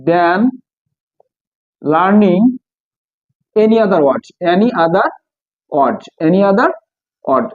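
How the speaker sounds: slow word groups with long pauses; dictating while writing. Real, not acted. Teacher finishing a comparative example for students, slow dictation. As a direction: repeat pieces slowly while writing them out.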